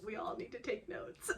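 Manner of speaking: a real laugh through "We all need to take notes". Real, not acted. Fan telling viewers to learn, laughing through "We all need to take notes".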